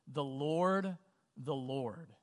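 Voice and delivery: a touch of solemn proclamation; lightly proclaimed scripture; proclaiming. Acted. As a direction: read it out as a measured proclamation, pausing between phrases.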